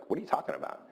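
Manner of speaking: retold bewilderment, voice lifted; baffled question. Retold baffled reply to producer.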